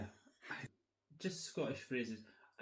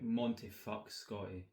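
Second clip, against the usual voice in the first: Scottish phrase; 2 semitones lower, slower than usual. Shown as a demonstration. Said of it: "how would I say that in Scottish".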